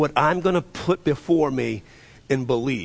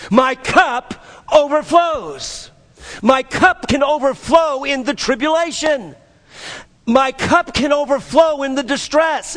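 raised, emphatic preacher's voice; impassioned preaching; 5 semitones higher than usual. Real, not acted. Preacher rallying the congregation through tribulation, impassioned.

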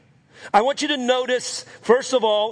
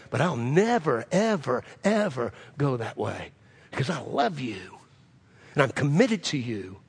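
earnest pledge; 7 semitones lower, 5 dB quieter than usual. Acted. Acts Peter's earnest pledge to Jesus.

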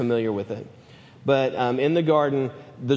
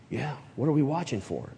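puzzled disciple; 5 dB quieter than usual. Acted. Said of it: "what the disciples were thinking".

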